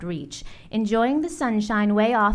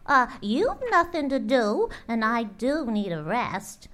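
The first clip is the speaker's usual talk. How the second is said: coaxing bird; 5 semitones higher than usual. Acted. Maisie coaxes Horton.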